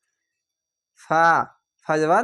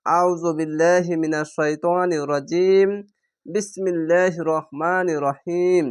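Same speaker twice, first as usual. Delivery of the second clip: recited opening; slower than usual. Shown as a demonstration. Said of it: "প্রথমে বলবেন".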